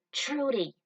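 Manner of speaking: loud call across the campsite. Acted. Spike calling to Trudy across the camp, loud call. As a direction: shout her name from a distance.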